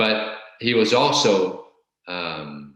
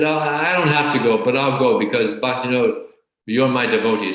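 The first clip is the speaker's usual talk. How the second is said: higher and louder, lordly and gracious; grandiose condescension; 4 semitones higher, 5 dB louder than usual. Retold or imitated. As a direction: play the self-made god granting a favour. Impostor grandly agrees to go.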